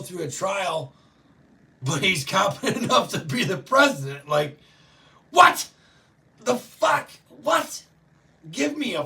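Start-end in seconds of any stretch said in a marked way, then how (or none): 5.3-9.0 high, loud shocked what; stunned outburst, much higher and louder; incredulous yelp. Real, not acted. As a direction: squeal out disbelief. Disbelief at DOJ ruling.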